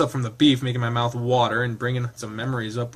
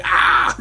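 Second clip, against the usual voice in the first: yowl; 6 dB louder than usual. Acted. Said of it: "earning a yowl from the feline".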